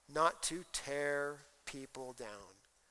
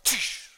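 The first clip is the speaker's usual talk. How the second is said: sarcastic tsk; 7 dB louder than usual. Retold or imitated. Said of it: "quick sarcastic comments".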